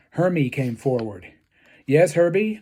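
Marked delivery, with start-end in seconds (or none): 1.9-2.6 officiously. Acted. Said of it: "Missus Claus said officiously".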